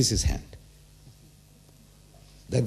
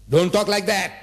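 higher-pitched, mildly indignant scolding; indignant rebuke; 6 semitones higher than usual. Acted. Allah rebuking those who say he begot a son, indignant.

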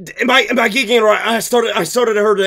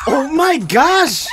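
laughing shout; 5 semitones higher, slower than usual. Real, not acted. Streamer reacts to the screaming.

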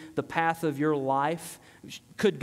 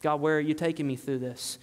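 prayer of faith; 3 semitones lower, faster than usual. Shown as a demonstration. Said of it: "That's a prayer of faith".

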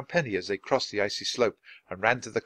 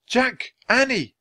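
Kathleen calling, much higher and louder; 13 semitones higher, 6 dB louder, slower than usual. A narrator's reading. Kathleen calling to the children, high and loud. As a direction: call their names across the orchard.

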